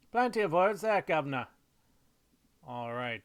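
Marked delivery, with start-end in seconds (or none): 0.1-1.5 high, loud mock Cockney. Artist approving the word count, mock Cockney accent. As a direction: put on a cheeky Cockney lilt. Playful Cockney-style sign-off with governor.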